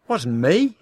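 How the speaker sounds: loud, high shout; yell. Acted. Husband yelling denial at wife about mud, loud. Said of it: "he yelled".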